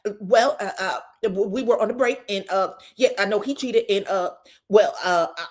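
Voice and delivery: hesitant, halting confession; stuttering admission. Retold or imitated. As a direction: stumble through the excuse. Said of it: "Trisha stutters out".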